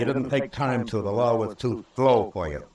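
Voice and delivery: stern reproach, rising in pitch; sharp rebuke. Acted. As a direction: scold him for his haste. Marshal rebukes Honeyman's impatience.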